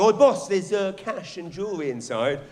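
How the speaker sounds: a small-time crook tipping off the boss; mock henchman. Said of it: "crime syndicate being there and going".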